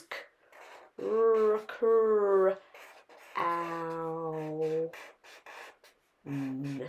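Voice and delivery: segment crown sound by sound, K, r, kr, ow, n. Shown as a demonstration. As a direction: stretch each sound of "crown" apart with pauses. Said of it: "slowly saying the sounds".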